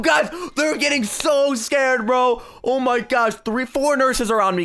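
high-pitched, hyped-up exclaiming; real excitement. Real, not acted. Troller telling guys about the nurses, high excited voice. Excited reaction to victims' panic.

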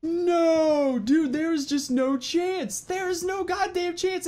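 high, loud despairing yell; panicked shout. Real, not acted. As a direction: scream in real despair. Dragon attacks again.

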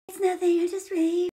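high-pitched tearful imitation; mock crying. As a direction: put on a weepy, squeaky little voice. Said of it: "she starts crying".

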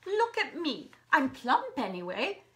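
loud, high-pitched outrage; indignant protest. Acted. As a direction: protest the insult at full voice. She protests being called bony.

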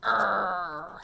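low mock monster growl; scary growl. Shown as a demonstration. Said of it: "make a scary face. Go".

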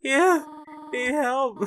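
high, put-on woman voice; squeaky falsetto lady voice; man doing a woman's voice. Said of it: "I don't know how to do a woman voice".

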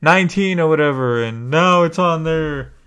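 lightly voiced smug fan, slowed in spots; a hint of a boastful gamer; mocking a proud fan. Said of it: "people were like".

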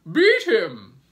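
very loud, high yell; fierce cry. A narrator's reading. Aunt Sponge urging her sister on, crying out. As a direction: yell it as a savage command. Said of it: "cried Aunt Sponge".

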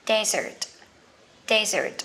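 desert stressed on the first syllable, DEZ-ert. Shown as a demonstration. Teacher contrasting desert for learners, stress on DEZ. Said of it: "Sa mạc của mình sẽ là".

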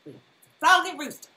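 mock rant about a rooster; mock character line. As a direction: play a lightly voiced grumbler. Quoting a line in a voice.

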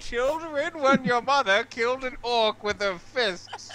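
high, slow bedtime-tale voice; mock storyteller. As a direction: grandly recount a legend to the children. Mock tale told to future children.

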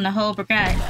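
British-tinged slip on BRIGADE, second vowel as 'ah'; accidental British 'ah' in brigade; slipped into British. Real, not acted. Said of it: "I turned British for a second".

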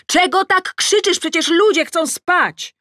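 high, loud scolding yell; shout. A narrator's reading. Scolding Adam through the window, shouting. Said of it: "Więc krzyczę przez okno".

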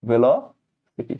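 "ভেলোসিটি" very slowly, broken as "velo... siti"; slow teaching model of "ভেলোসিটি", pausing mid-word; pronunciation demo. Shown as a demonstration. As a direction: draw out "ভেলোসিটি" in parts for the class. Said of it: "আর এটার উচ্চারণ ভেলোসিটি".

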